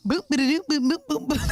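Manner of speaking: beatbox a cheesy house groove; mock house music. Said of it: "how to do the little house music sound".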